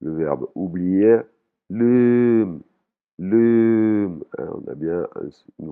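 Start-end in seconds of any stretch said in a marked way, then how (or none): 1.7-4.2 « lum » avec le son tenu, un peu plus haut; voyelle longue thaïe. Shown as a demonstration. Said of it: "voyelle longue". (prononciation thaïe, voyelle longue)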